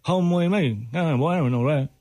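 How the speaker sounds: mumbled as if without teeth; toothless voice. Pretend. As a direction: lips over gums, slurred words. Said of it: "You're talking like you have no teeth".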